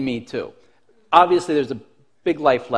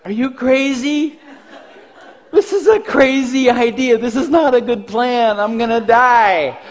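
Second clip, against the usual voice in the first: high, loud mock panic; hammed-up, high-pitched alarm at a doomed plan; panicked protest; 5 semitones higher, 4 dB louder than usual. Kid protesting dad's crazy fight plan, mock panic.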